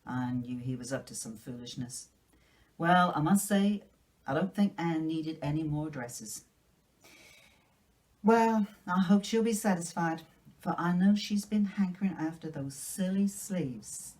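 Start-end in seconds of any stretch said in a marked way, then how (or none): 2.8-14.1 put-on a louder, disapproving older woman with a touch of huff; a hint of a stern spinster; grumbling Marilla. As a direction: scold about the silly sleeves, lightly voiced. Marilla grumbling about the dress.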